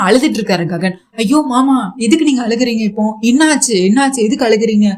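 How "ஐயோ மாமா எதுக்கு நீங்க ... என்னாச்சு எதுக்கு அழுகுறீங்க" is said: alarmed concern. Retold or imitated. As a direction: rush in alarmed, asking why he cries. Bhoomi sees her uncle crying. (அழுகையைப் பார்த்து பதறிய குரல்)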